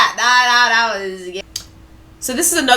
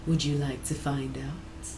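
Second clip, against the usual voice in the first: hushed low seductive murmur; soft slow secretive hush; whispering; 6 semitones lower, 10 dB quieter than usual. Acted. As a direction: lean in and murmur it softly. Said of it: "Leans in whispering".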